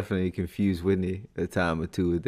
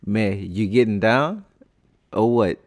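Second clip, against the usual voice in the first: Louisiana Creole accent; 2 semitones higher, 4 dB louder than usual. Shown as a demonstration. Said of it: "when people from Louisiana say".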